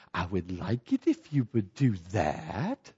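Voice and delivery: low, soft, pointed politeness; condescending retort. Acted. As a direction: answer back with over-controlled courtesy. Caller answers condescension in kind.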